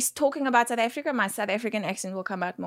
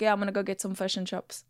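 softer, casual New Zealand English; Kiwi accent; 5 dB quieter, faster than usual. Shown as a demonstration. Guest imitating Kiwis going for food, New Zealand accent. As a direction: flatten the vowels like a Kiwi. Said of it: "and Kiwis are like".

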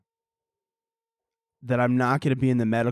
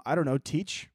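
ordinary talk, nothing marked

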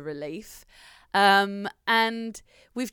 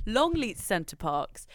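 slow announcer read of the name; hard sell ad; slower than usual. Shown as a demonstration. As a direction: say it like a holiday advert. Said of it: "I'm gonna say it like an ad".

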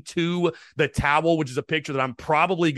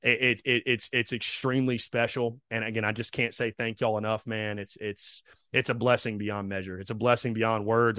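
holding back emotion; 3 semitones lower, 4 dB quieter than usual. Real, not acted. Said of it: "I'm trying not to get emotional".

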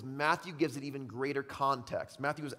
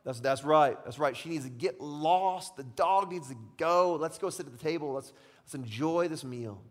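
smug disciples; 4 dB louder than usual. Retold or imitated. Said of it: "they're nodding their head in agreement".

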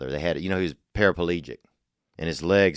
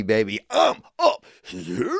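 yelling across the room; 3 semitones higher, slower than usual. Pretend. Calling out to wife.

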